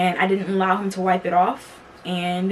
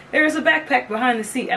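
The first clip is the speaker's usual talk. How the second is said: higher, hammed-up game show host; 4 semitones higher than usual. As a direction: announce it like a prize reveal. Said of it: "I did my whole, like, game show voice".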